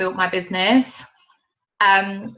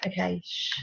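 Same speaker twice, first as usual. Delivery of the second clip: hushing; 10 dB quieter than usual. Real, not acted. Hushing her son mid-recording.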